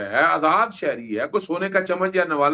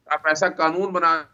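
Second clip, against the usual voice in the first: bad line, words dropping out; broken-up audio; voice cutting out. Real, not acted. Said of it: "آپ کی آواز کٹ گئی تھی".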